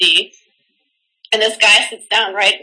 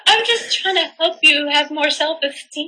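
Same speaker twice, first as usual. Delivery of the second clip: higher-pitched pretend wounded catcaller; mock-pleading, in a raised voice; mock hurt; 4 semitones higher than usual. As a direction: play the misunderstood helper, hammed up. Plays along as the hurt catcaller.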